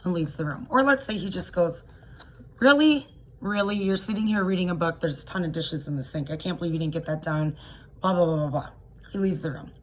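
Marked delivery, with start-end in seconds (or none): 2.6-8.7 mock nagging husband, annoyed; scolding spouse. Abuser scolding victim over book.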